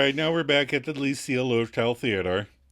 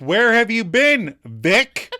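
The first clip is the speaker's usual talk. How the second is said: high, loud theatrical questioning; stagey demand; 10 semitones higher, 8 dB louder, slower than usual. Acted. The speaker trying to do the play, hammed-up loud call. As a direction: call it out like an amateur actress.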